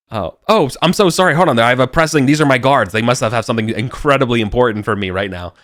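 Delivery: high, loud flustered royal excuse; hurried apologetic noble brushing off guests; fussy polite king. Acted. King making an excuse to leave, flustered and high.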